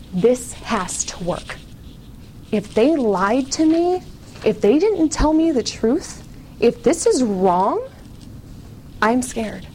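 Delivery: slow, hushed pleading; desperate prayer. Retold or imitated. Alone in her dorm, praying to God in slow hushed despair. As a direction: plead slowly, close to breaking.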